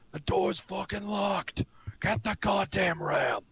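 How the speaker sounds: a hint of a gruff guard; lightly voiced thug barking orders; deep male guard voice. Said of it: "a deep male's voice say".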